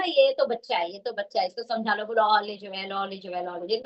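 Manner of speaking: put-on soothing the inner child. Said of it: "अब चेतन मन बोल देना".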